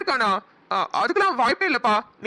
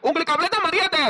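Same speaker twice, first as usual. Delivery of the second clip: higher, heated rebuke; angry outburst; 3 semitones higher than usual. Acted. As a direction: defend him, indignant and raised. Son furious at insult to friend.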